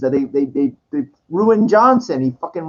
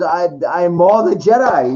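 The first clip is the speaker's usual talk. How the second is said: mock heroic line; 3 dB louder than usual. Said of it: "she goes".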